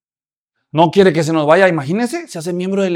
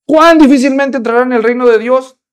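raised, forceful declaration to the whole crowd; loud rebuke; 6 semitones higher, 7 dB louder than usual. Acted. Preacher voicing Jesus to the crowd, loud rebuke. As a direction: thunder it out as Jesus confronting everyone.

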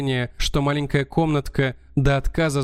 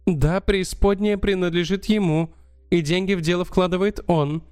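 higher, lively countess voice; 4 semitones higher than usual. Acted. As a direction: play an excitable countess, pitched up. Countess threatens to betray him.

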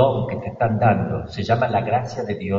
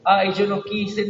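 mock weeping; 7 semitones higher than usual. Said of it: "se ha quedado llorando".

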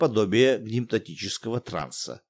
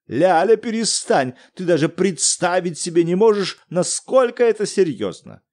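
higher, insistent pleading; urgent husband; 6 semitones higher, 5 dB louder than usual. Acted. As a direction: cut her off, deadly serious. Муж обрывает жену. (муж настойчиво обрывает жену)

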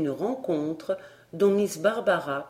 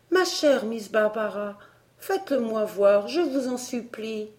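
put-on pleading girl; 4 semitones higher than usual. A narrator's reading. Elsie begs Barbara.

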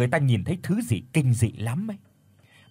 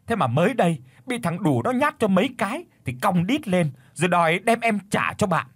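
high, spiteful complaining; disarmed wife bitterly complaining about her cowardly husband; bitter resentment; 5 semitones higher than usual. Acted. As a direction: spit out the grievance. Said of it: "hằn học nhìn thằng Thắng rồi cay cú nói".

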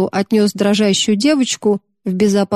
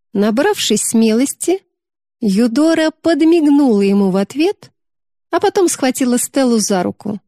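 plain reading voice

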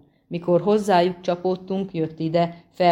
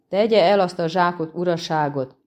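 threatening; 3 dB louder than usual. Acted. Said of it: "mondta fenyegetően".

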